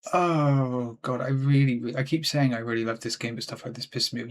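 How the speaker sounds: understated frustration, sighing into it; real annoyance. Real, not acted. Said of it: "You can hear how annoyed I've, I've become".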